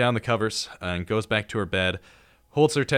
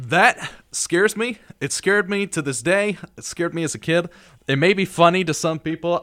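emphatic; 8 semitones higher, 4 dB louder than usual. Real, not acted. Emphatic about fear, loud high.

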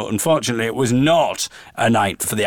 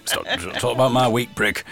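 laughing. Real, not acted. Laughing at a joke.

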